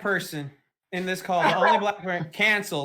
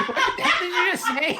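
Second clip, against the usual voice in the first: slow, high words broken by laughter; laughing hard; 8 semitones higher, much slower than usual. Real, not acted. Asking the guest to repeat it, laughing hard. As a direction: struggle to ask through real laughter. Cracking up at guest's odd remark.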